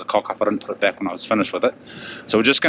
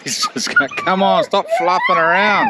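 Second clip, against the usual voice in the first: laughing. Real, not acted. Hurrying the dog, laughing.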